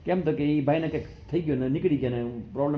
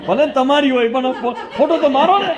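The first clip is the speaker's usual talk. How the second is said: laughing; 8 semitones higher, 4 dB louder than usual. Pretend. Mock boasting about silver glass.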